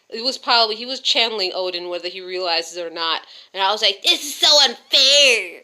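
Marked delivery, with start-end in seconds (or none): 4.1-5.5 very loud, swooping, drawn-out whine. Woman retelling her own complaint after her husband shut her down, in a mock-whiny voice. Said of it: "I sound like a whiny social justice warrior bitch".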